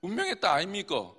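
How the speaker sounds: punchy Gyeongsang-accent demo; quick taste of Gyeongsang dialect. Shown as a demonstration. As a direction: say it like a Gyeongsang local. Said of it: "경상도로".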